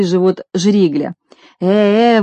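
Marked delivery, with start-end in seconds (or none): 1.6-2.2 mild frightened yelp; startled cry of horror; a hint of a scared shout; terrified cry. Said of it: "в ужасе закричал полицейский".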